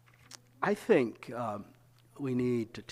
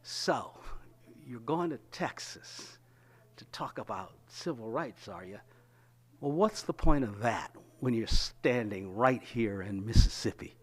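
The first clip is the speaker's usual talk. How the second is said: imitating a student's understated disdain. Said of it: "with complete disdain in his voice".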